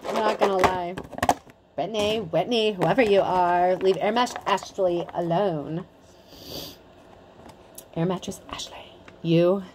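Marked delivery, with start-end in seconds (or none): 1.8-5.9 put-on a light, bratty teen sneer; lightly voiced snotty teen telling someone off; snotty teenager voice. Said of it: "that's also my snotty teenager voice". 8.0-9.6 whispered aside to Ashley. Pretend. Mock warning whispered to Ashley.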